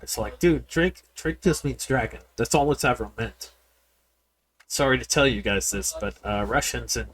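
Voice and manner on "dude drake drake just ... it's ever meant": a hint of an indignant nerd correcting someone; mock yell. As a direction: mimic a know-it-all commenter, lightly. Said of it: "when people yell at me like that".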